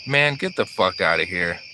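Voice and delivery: lightly put-on street accent. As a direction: toss it off in a slight accent. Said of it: "he said in an accent".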